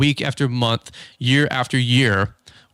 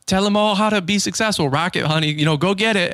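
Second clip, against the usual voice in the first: raised-pitch imitation of mocking encouragement; teasing cheer; 6 semitones higher than usual. Cleaner ganging up with the wife, teasing cheer. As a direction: act out a cleaner egging him on. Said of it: "started making fun of me".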